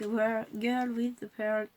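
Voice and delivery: slow, heavily French-accented English title. Real, not acted. Reading a painting's title to viewers, in slow French-accented English. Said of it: "vous excuserez mon accent pourri".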